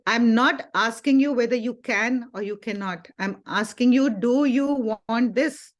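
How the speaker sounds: imitating a strict teacher pressing for an answer; retold teacher sternly demanding a straight answer; stern scolding. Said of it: "she very sternly, in a very stern, like, a kind of a scolding way".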